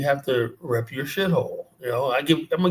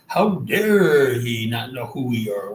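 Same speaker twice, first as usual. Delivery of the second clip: mock indignant; 3 dB louder, slower than usual. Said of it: "They're like".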